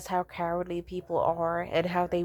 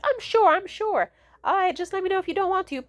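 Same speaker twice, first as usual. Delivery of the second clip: very high, louder imitation of mom insisting; insistent mom; 13 semitones higher, 4 dB louder than usual. Mom insisting to her daughter she will help, high insistent imitation. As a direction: play a mother brightly brushing off doubts.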